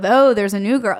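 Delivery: plain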